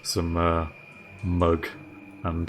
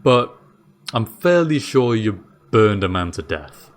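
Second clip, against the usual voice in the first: higher, puzzled jailer voice; bewildered jailer, thinking it through aloud; Dave the jailer; 6 semitones higher than usual. Acted. Jailer Dave asks the prisoner why he isn't hanged, confused and higher.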